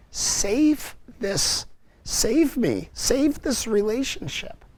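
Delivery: begging for rescue; pleading prayer. Retold or imitated. Man begging Mary to save his relationship, pleading.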